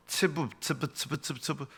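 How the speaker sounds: softly repeated buzzing syllables; fly buzzing imitation. Shown as a demonstration. Preacher demonstrates a flying fly's sound, imitative buzzing. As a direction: imitate a fly's wings in quiet, quick repeats. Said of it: "파리 날아다니는 소리 비슷하죠".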